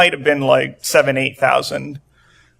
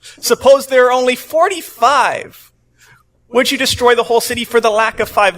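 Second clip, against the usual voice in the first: higher, anxious pleading Abraham; timid Abraham; 6 semitones higher than usual. Retold or imitated. Abraham bargaining with God, pitched up and pleading. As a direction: ask nervously, bargaining upward. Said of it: "he continues".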